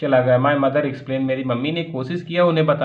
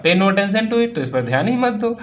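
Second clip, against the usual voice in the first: mock roar; 5 semitones higher than usual. Uncle roaring at the farmer to ignore the pain, raised voice. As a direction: boom it out like the uncle. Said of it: "My uncle Khosrow roared".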